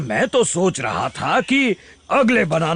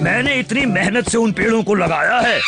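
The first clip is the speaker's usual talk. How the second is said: indignant shout; 2 semitones higher than usual. Acted. Arguing with the monkey king.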